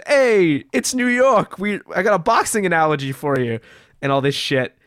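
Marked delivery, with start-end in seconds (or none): 0.1-3.6 lightly mocking pep talk, pitched up at the start; a hint of a gung-ho boss; hyped-up boss. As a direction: imitate a boss psyching someone up. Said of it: "psyching him up with all this".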